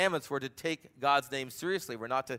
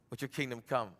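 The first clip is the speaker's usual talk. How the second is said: softer prayer; 5 semitones lower, 9 dB quieter than usual. Acted. Repeated prayer fading.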